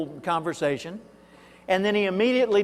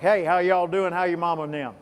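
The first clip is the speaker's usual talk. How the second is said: folksy Arkansas accent, lightly put on; Arkansas drawl greeting. Shown as a demonstration. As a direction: greet old friends in a down-home Arkansas accent. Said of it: "when we say good morning, it's more like".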